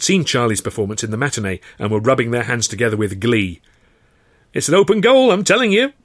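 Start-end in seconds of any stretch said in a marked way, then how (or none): 4.5-5.9 high, loud gleeful crow. A narrator's reading. Old pal Bert crowing to Arthur about the bet, gleeful. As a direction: crow it like a sure winner. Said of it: "Bert crowed".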